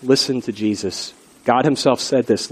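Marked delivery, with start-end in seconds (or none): 0.0-1.1 soft earnest plea. Real, not acted. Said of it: "best advice I could ever give".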